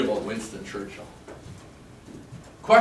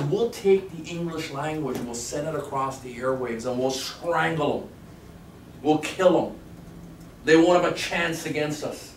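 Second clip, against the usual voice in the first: Churchill rant; 4 semitones higher, 3 dB louder, slower than usual. Retold or imitated. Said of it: "ranting like this".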